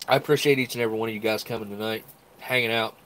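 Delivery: nasal voice from a stuffy nose. Real, not acted. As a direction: talk through a blocked nose. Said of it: "Sorry I'm all stopped up ... talking through my nose".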